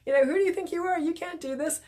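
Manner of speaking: high-pitched heckling gremlin voice; whiny, high gremlin jeer; nagging fuggler. Acted. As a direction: taunt like a little gremlin in someone's head. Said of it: "It's like its voice is kind of saying".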